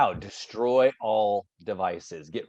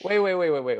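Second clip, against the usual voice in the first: high, repeated interruption; mock disbelief; 5 semitones higher, faster than usual. Host stops kid's absurd advice, mock disbelief. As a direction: halt the advice in comic bewilderment.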